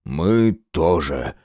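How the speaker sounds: very slow, hammed-up grief; mock sorrowful. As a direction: pretend heartbreak for a laugh. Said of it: "сокрушённо добавил Геныч".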